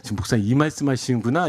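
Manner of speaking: low, quickened aside in a listener's voice; imagined congregant's realization. Pretend. Friday worshipper thinking about the pastor's message, dawning realization. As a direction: lightly voice a churchgoer quietly catching on. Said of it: "금요일에 오신 분들".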